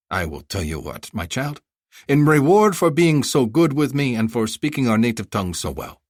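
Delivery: high, effusive haggling vendor; a flattering bazaar seller pitching; eager merchant. Acted.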